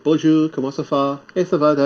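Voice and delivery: put-on "Bonjour, comment ça va?" with a heavy English accent; English-accented French. Admitting he keeps his accent, English-accented French. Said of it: "I still have the accent".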